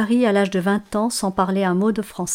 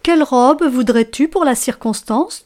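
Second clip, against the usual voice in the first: higher, brighter curious question; big fir tree asking; 4 semitones higher, 4 dB louder than usual. Acted. Tallest fir asking its neighbour about its dress, higher. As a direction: ask your neighbour eagerly. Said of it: "demande le plus grand à son voisin".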